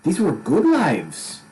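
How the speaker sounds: high, bright Scottish god voice; a jolly god speaking in Scottish; Scottish accent. Acted. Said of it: "a little Scottish".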